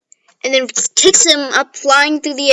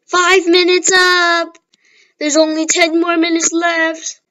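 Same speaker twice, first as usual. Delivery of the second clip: a hint of a slow, higher announcer call; announcer lady; 5 semitones higher, slower than usual. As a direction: lightly play the announcer calling time. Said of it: "Then the announcer lady ... said".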